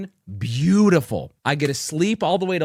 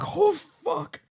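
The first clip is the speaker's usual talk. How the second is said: retold oh no; 13 semitones higher than usual. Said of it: "And I was like".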